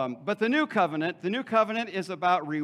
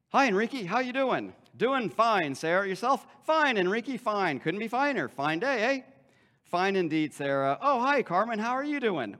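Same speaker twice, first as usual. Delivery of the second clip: high, singsong fake-cheery greetings; overdone pleasantries; 5 semitones higher, 5 dB louder than usual. Masked churchgoers insisting they are fine, overdone cheer. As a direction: ham up the small talk, pitched up and loud. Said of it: "it's just overdone".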